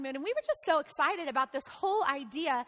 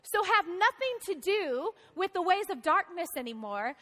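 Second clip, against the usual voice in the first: apostle's appeal; slower than usual. Retold or imitated.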